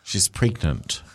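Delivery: low, slow psychic prophecy; mock mystical. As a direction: intone it like a fake clairvoyant. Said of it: "A little psychic voice kicked in".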